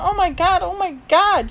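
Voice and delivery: high, loud squeals; overjoyed, shrieky repeats; screaming with excitement. A narrator's reading. Mom hugging her daughter after the show, excited squealing. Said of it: "Mom was screaming with excitement".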